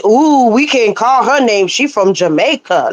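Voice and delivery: slow, put-on gasping gossip voice; mocking gossip. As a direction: ham up the fake awe about her Jamaican roots. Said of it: "They gonna say".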